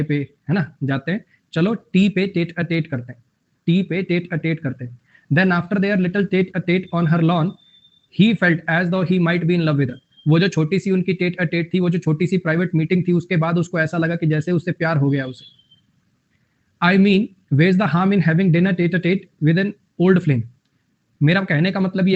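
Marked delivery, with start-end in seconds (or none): 1.5-4.9 slow, careful reading of an English example. Acted. Reads example sentence slowly. 5.3-10.0 slow, careful reading of an English example. Acted. Reads example sentence slowly. 16.9-20.4 slow, careful reading of an English example. Acted. Reads example sentence slowly.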